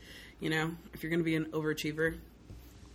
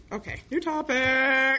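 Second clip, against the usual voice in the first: laughing it off; 7 semitones higher, 6 dB louder, slower than usual. Real, not acted. Backs away from heavy topic.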